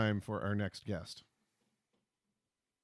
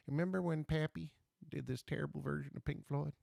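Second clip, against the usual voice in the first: mock Southern grandkid voice, pitched up a little; bizarre Southern accent; 4 semitones higher, 5 dB quieter than usual. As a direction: put on a hammed-up Southern accent, softly. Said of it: "my children have a bizarre Southern accent".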